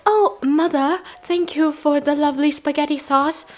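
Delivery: mock-sweet thankful child; a hint of a grateful kid.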